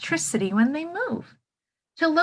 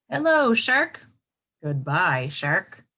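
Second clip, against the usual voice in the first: playful hello; 4 dB louder, slower than usual. Pretend. Greeting shark in picture.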